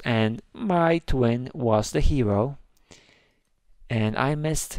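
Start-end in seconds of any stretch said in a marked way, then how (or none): none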